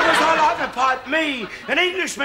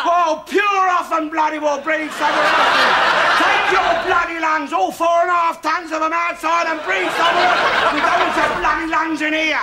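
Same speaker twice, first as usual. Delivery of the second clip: angry shouting. Acted. Husband yelling at wife.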